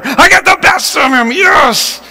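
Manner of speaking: high-pitched victory cheer; retold gleeful celebration; triumphant gloating. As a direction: crow about the win. Retold gloating resumes after aside.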